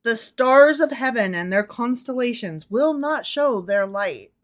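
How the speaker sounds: measured, emphatic verse; deliberate proclamation, word by word; dramatic scripture reading. Acted. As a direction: declaim it as prophecy. Reads scripture aloud to co-host.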